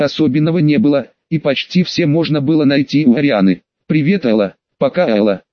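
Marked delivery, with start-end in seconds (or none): 3.9-5.4 pixie. Acted. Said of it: "пропищали Пикси".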